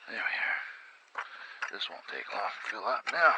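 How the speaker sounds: straining while working; grunting with effort. Real, not acted. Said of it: "apologize for all the grunting and groaning".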